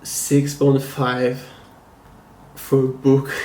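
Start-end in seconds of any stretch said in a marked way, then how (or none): 2.6-3.4 real chuckle breaking into the words; laughing. Real, not acted. Reviewer reveals the grade for a flawed book, laughing. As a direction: apologize through a suppressed laugh. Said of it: "I'm laughing".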